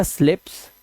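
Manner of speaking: स्लिप्स with a short "i", queried; low echo of the mispronounced स्लिप्स; short vowel. Retold or imitated. Teacher querying a pupil's mistake on phone, short vowel. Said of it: "मैंने कहा".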